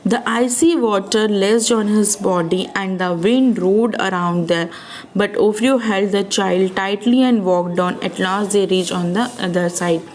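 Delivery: put-on slow, careful read-aloud for kids; slow storybook reading. A narrator's reading. Storyteller reading Ofrio's thought to children, slow and clear. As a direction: read each word out slowly to the children.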